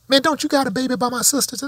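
high-pitched mock dude asking; retold dude. Dude's question, retold.

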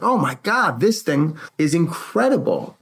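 amazed. Retold or imitated. Husband retelling his first wow at the property, amazed. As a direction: relive the wow, stretching the praise.

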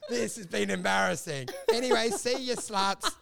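mock amused scoffing, drawn-out opening; laughing dismissal. Playing a sent-home contestant mocking the show, laughing dismissal. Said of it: "you wouldn't be laughing at the whole show".

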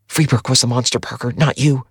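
pleading. A narrator's reading. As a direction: gently beg him to see it. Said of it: "Her voice was pleading".

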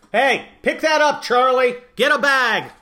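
mock yelling across the lawn at Charlie. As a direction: scold a neighbour for his dog's mess, tongue in cheek. Pretend yell at Charlie Sykes.

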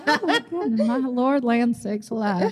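Southern grandma voice. Pretend. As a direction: lightly play a Southern grandma. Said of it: "I sound like my grandma".

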